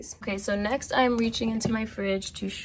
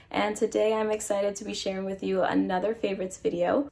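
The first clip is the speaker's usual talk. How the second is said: stuffy nose from a cold; congested voice. Real, not acted. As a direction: talk through a blocked nose. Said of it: "forgive me if I sound a bit congested".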